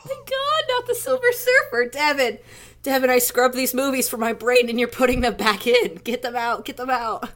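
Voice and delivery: high, loud, pained protest; anguished high protest. Real, not acted. Begging Devin to stop naming the bad movies, loud and high. Friend brings up hated movies.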